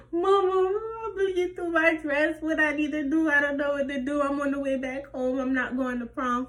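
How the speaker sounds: high, crying plea to mama; tearful panic. Retold or imitated. Teen calls her mama mid-crisis, crying and panicked. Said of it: "I'm ready to cry".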